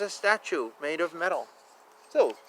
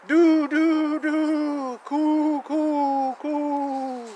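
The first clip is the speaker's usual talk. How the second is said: high hooting bird call; playful high cooing; pigeon coo; 9 semitones higher, 5 dB louder, much slower than usual. Pretend. Imitating bird calls in rhyme.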